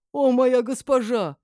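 high, loud, slow adoring cry; enraptured slave. A narrator's reading. Crazed slave worships his mistress, enraptured. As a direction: swoon aloud in worship.

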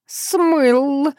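high, slow, wailing cat voice; whining cat. Acted. Cat wailing while bathed, high and slow. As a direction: howl it out like a cat being bathed. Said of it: "подвывал Терентий".

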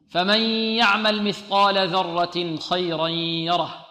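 slow, measured tajwid recitation; slow Quran recitation. Shown as a demonstration. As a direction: chant the verse slowly, each letter clear. Recites the verse slowly.

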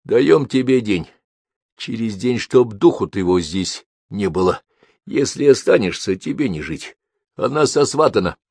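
father coolly threatening Alexei; calm and firm. Acted. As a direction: lay down the terms without raising your voice. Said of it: "сказал спокойно и твёрдо".

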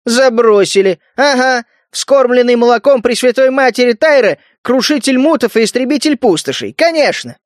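high, mocking sarcastic echo. A narrator's reading. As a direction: throw the rat's words back with scorn. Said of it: "с сарказмом повторил".

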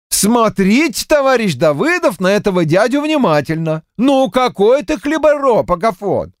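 high, needling mock voice; high mocking clerk voice; teasing bookkeeper. A narrator's reading. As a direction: poke fun at him. Mocking bookkeeper teases Dubtsov.

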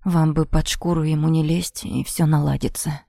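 a low bass voice, gently hopeful; a big guard reassuring her; deep hopeful voice. Acted. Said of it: "Басовитый голос с нотками надежды". (басовитый голос с надеждой)

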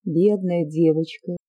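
slow, gentle pitying tone; tender. Acted. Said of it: "ещё более нежным голосом".

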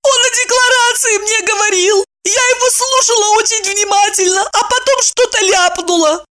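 put-on high, childish young woman; a silly girl explaining earnestly; naive girl voice. Maya explaining to friends, high naive girl voice.

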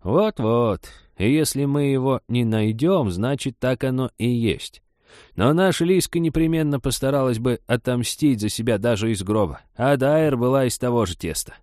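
high, opinionated granny; insistent old woman. Acted. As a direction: argue your theory with conviction. Old woman argues her theory.

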